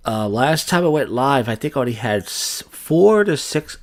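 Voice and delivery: talking around gum; words softened by gum in mouth; chewing gum. Real, not acted. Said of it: "I got gum in my mouth".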